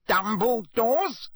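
high, slow bewildered question; not understanding, drawn out; dazed man questioning a boy; confused madman. A narrator's reading.

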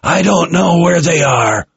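high-pitched, desperate protest; desperate cry. A narrator's reading. Captured officer pleads with his interrogator, desperate cry. Captive under violent interrogation.

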